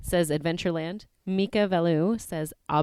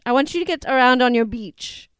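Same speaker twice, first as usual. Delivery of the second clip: put-on New Zealand accent, "beach" for bench; mock instructor's New Zealand twang; imitating New Zealand instructor; 5 semitones higher, 7 dB louder than usual. Retelling the gym instructor again, New Zealand accent. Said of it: "It was sounded like beach".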